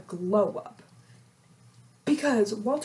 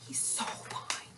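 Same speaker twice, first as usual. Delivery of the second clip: breathy swoon over a hot guy; hushed he's so fine; swooning whisper; 13 dB quieter, slower than usual. Real, not acted.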